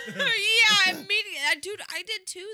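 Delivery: high squealing laughter; laughing hard. Real, not acted. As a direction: laugh through the words. Laughing fit over needing to pee.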